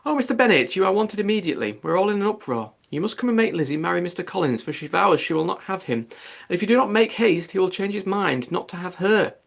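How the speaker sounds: high, loud frantic call to her husband; calling out in alarm. Acted. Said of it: "called out as she entered".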